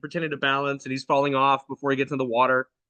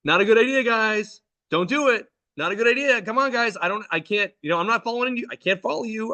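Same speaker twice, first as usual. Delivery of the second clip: raised, higher-pitched mock yell; mildly yelled parental plea; retold yelling; 5 semitones higher than usual. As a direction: call out a warning to the kids. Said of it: "I start yelling".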